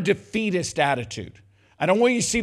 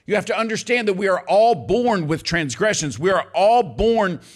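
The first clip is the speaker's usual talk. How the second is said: louder, stretched out; preaching at full force; 3 semitones higher, 4 dB louder than usual. Real, not acted. Preacher driving home that all are born sinful. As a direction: hammer the word all.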